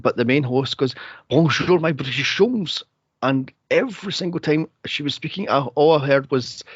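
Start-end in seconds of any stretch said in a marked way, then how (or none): 1.3-2.8 mimicked TV host's French accent; heavy French accent. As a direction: put on a thick French accent. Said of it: "heavy French accent".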